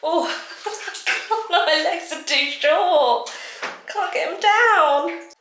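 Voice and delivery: high strained laughing while stretching. Real, not acted. To herself, struggling to reach the bath, laughing high. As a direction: giggle through the effort of reaching down.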